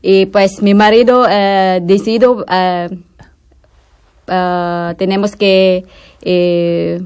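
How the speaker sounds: Spanish with a Filipino accent; non-native Spanish with a Filipino accent. Real, not acted. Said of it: "mi español no está bueno".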